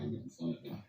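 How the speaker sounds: breathy whisper, trailing off; hushed real whisper closing the tale. Real, not acted. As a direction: drop to a whisper for the ending. Hushed end of eerie story.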